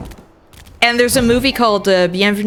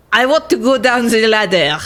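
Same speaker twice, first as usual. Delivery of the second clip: put-on French accent. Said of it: "I need to stop speaking with the accent".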